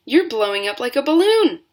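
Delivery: high loud alarmed cry; screeching mother. A narrator's reading. Mother screeches at the swelling girl, high and loud. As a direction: keep the screech going. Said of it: "screeched Missus Beauregard".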